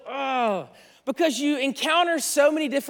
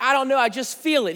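mock fired-up enthusiast, pitched higher; excited; 3 semitones higher than usual. Pastor voicing an excited made-up character, fired up. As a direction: lightly play an eager believer in the year. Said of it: "He's fired up".

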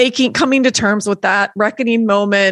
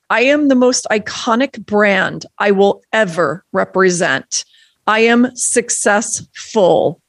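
measured, declarative recital of affirmations; manifesto reading. Acted. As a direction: read each I am line like a vow. Reads her manifesto aloud.

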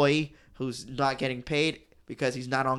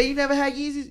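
laughing quote; 12 semitones higher than usual. Retold or imitated. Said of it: "he said".

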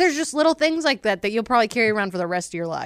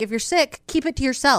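retold snap; 3 semitones higher than usual. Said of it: "And I was like".

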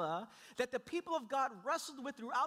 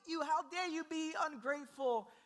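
raised pitch, mildly indignant God; mock divine wrath; 4 semitones higher than usual. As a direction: play a scolding God, hammed-up. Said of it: "instead of God saying".

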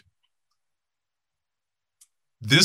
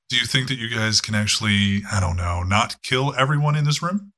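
calm. Acted. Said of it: "And very calmly".

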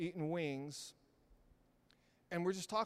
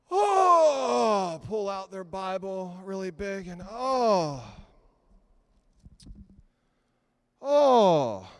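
showy sigh; 11 dB louder, much slower than usual. Retold or imitated. Preacher mimics a coffee-shop show-off, loud hammed sighs. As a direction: overplay a show-off Bible reader. Mocking showy Bible reader.

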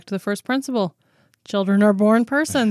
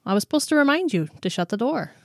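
a light, quick, kindly reminder; gentle reminder; 5 semitones higher, faster than usual. Retold or imitated. Parent gently reminding a child to shut the door, light and quick. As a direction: remind him without any scold. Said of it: "you can say gently".

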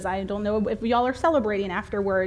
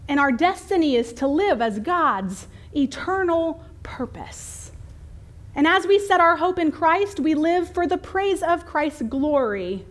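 lightly elevated preacher's reading, pitched up; preachy, raised scripture voice; lofty preacher; 5 semitones higher than usual. Acted. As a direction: quote scripture with a touch of pulpit grandeur. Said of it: "nobody but preachers talks like this".

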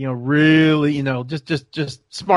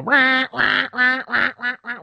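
duck call honks; 10 semitones higher than usual. Retold or imitated. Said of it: "blowing that comeback call".

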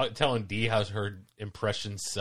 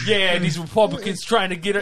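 imitating a bad impression, loud and higher; loud, mock-failed presidential impression; Obama; 6 semitones higher, 7 dB louder than usual. Retelling a sitcom character's failed impression, loud and higher. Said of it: "she just goes to do Obama".

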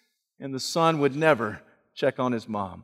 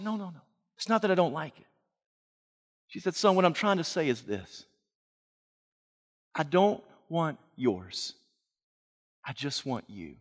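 tender mother; 9 dB quieter than usual. Acted. Mother quietly telling her son she only wants him. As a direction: say it gently, barely above a breath at the end.

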